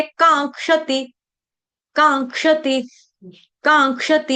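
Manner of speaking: "कांक्षति" as kaang-ksha-ti with a ng before क्ष; nasal before k. Shown as a demonstration. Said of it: "अनुनासिक का". ("कांक्षति" में ङ वाला अनुनासिक)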